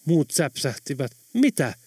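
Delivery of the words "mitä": high-pitched startled questions; puzzled surprise. A narrator's reading. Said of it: "muut ihmettelivät". (hämmästynyt, korkea ihmettely)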